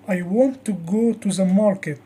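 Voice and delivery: WANT, go and market strong, small words weaker; sentence stress. Shown as a demonstration. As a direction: lean on want, go, market and ease off to, the. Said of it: "The strong words are want".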